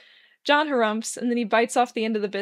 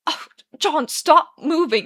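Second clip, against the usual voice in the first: higher, louder pleading complaint; queasy protest; 6 semitones higher, 8 dB louder, slower than usual. A narrator's reading. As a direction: beg him to stop, feeling sick. Arthur sick, complaining on couch.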